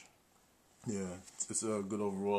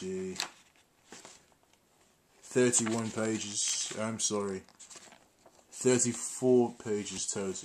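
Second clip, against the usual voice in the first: mock British accent. Vlogger showing off the manual to viewers, mock British accent. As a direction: put on a playful fake British accent. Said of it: "I think I'll do a British accent for this one".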